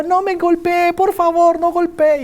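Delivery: put-on high, pleading little boy; begging child. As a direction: beg like a scared kid. Child begging mother not to hit.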